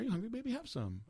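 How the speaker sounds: high lilting question, easing down; imitated doting woman. Woman offering her food to a friend, doting. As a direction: coax them to eat like a doting host. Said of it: "She used to call everybody baby".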